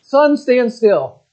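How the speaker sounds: slow, drawn-out command with every word held. Acted. Joshua in battle, commanding the sun to stand still, slow and drawn out. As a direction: order the sun to stop, stretching each word. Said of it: "and he's like".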